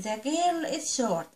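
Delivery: put-on each word drawn out slowly for young learners; slow teaching read. Shown as a demonstration. Teacher reading English slowly to her little pupils. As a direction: read it slow and clear for the children.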